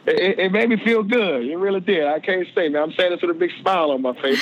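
smiling. Real, not acted. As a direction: grin through the words. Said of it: "we can hear the smile".

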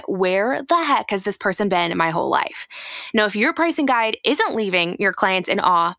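confident promotional read. Acted. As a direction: sell the free guide. Ad read continues.

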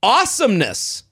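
a touch of goofy wannabe cool; wannabe-cool dad. Acted. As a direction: read it as a dad trying to sound cool. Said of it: "Okay, here's him".

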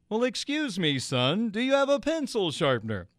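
a gentle, courtly ballpark announcer asking politely; mild imitation of the famous radio voice; Vin Scully impression. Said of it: "he did it in the voice".

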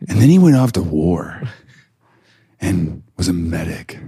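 lightly hammed-up storybook reading with a dramatic pause; mock novel narration. Co-host teasing the speaker's reading of the war story, mock narration. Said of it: "reading it like a young adult graphic novel".

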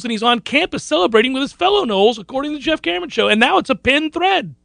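high, excited proclamation; gleeful high-pitched announcing; celebratory hype. Pretend. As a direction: build up the big news, pitched high. Hyping recruit news for hospitalized fan.

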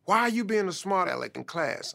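scolding mother. Retold or imitated. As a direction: voice the mother scolding her boy. Mother scolds son at home.

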